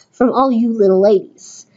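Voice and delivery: put-on "From all you little ladies" in a weak New York accent. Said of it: "I can't do New York".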